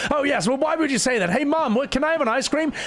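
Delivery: put-on high child voice. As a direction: pitch it up like a begging kid. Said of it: "It sounds something like this".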